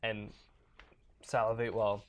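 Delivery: talking with gum in mouth; chewing gum. Real, not acted. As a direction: speak around a wad of gum. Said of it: "I have gum in my mouth".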